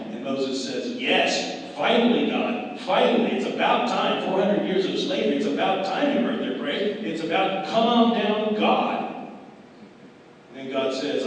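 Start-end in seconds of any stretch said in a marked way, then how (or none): 1.0-9.3 loud, high, emphatic outburst; worked-up, higher-pitched plea to God; exasperated relief. Acted. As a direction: cry out as if finally answered after endless waiting. Moses' exasperated relief at God's answer.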